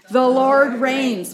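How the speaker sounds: slow and weighty, every word given its own beat; slow unison recitation. Shown as a demonstration. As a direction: lead the congregation, leaning on "Lord". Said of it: "Say it with me".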